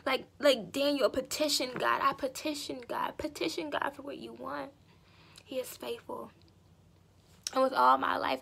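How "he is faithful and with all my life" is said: whispered worship. Real, not acted.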